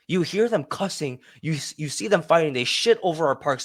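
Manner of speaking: mock indignant tirade; imitated enraged rant. Park-goer ranting at worker about homeless people, mock enraged. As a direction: act out an outraged park-goer's complaint. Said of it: "came up to me enraged".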